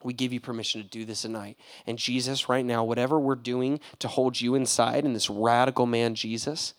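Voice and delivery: fast, fervent preaching prayer. Acted. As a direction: pray over the group. Leads a prayer.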